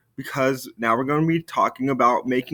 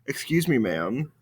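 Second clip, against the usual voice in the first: formal; 5 dB quieter than usual. Shown as a demonstration. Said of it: "We're saying".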